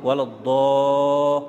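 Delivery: Wala-da stretched slowly, a heavy D, half sung; recited heavy dad. Shown as a demonstration. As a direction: chant Wala-da with a thick D. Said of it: "if you make it soft".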